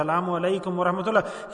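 sincere, full greeting from the heart; heartfelt salam. Retold or imitated. Preacher shows the heartfelt greeting to any person, sincere. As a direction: greet him as if you truly think him good. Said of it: "with the depth of your heart you say".

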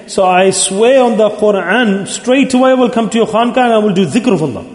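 pleading vow. Retold or imitated. Dying rich man begs the Hazrat, pleading vow. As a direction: swear it as a retold plea. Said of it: "put his hands together and pleaded".

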